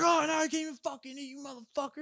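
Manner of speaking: high, fast mock complaint; imitated angry rant. Homeless man cursing the food giver, mock angry.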